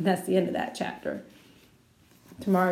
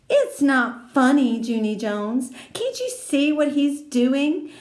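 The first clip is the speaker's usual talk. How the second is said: put-on know-it-all girl scolding; scolding May; 3 semitones higher, 3 dB louder than usual. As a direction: set Junie straight, bossy.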